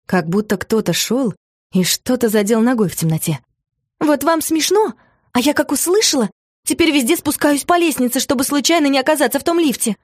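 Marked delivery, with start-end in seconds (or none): 4.0-10.0 hurt, drawn-out complaint; whiny drawl. Acted. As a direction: whine it, offended and drawling. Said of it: "обиженно протянула Мотя".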